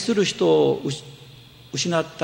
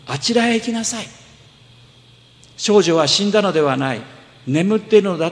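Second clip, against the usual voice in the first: Jesus sending the mourners away, firm and a little higher; voicing Jesus; 4 semitones higher, 4 dB louder than usual. Preacher voicing Jesus to the crowd, firm command. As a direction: speak with calm authority, louder at the end.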